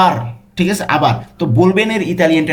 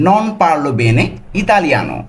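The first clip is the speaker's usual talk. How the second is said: very slow, full Italian sentence; all together slowly; 2 semitones higher, much slower than usual. Shown as a demonstration. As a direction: join the words, slowly and clearly. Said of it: "পুরোটা একসাথে যদি বলি".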